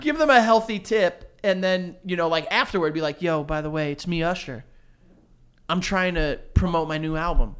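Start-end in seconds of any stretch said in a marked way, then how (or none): 3.2-7.6 exaggerated cartoon intonation. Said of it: "why are you talking like that? Like a singer".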